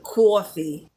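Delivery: "coffee" with a drawn-out Jersey aw vowel; Jersey-style "coffee"; Jersey pronunciation. Shown as a demonstration. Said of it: "that's how we say coffee".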